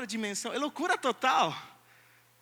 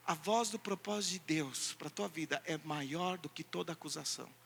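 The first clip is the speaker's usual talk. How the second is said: hushed intensity; 6 semitones lower, 6 dB quieter than usual. Real, not acted. Preacher to the church about accusation, hushed. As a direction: lower and much softer, sinking away. Sudden drop after loud line.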